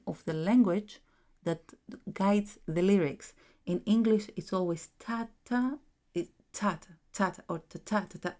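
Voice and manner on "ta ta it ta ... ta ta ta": "ta-ta" in regular stressed pairs; short, evenly timed "ta-ta" pairs; even four-quarter beat. Shown as a demonstration. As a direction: tick off "ta-ta" on a steady pulse. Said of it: "It's four quarters and it's even".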